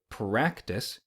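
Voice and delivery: practice with the R said as a D. Shown as a demonstration. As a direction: say practice as pdactice. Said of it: "put the letter D in its place".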